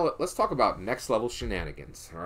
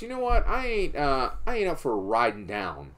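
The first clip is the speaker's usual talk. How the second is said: lazy outlaw. Retold or imitated. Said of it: "So Texas Jack goes".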